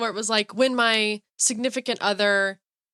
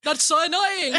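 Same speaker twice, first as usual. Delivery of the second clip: higher, laughing exasperation; mock annoyed cartoon king; 5 semitones higher than usual. Co-host scolding Mort in play, mock annoyed.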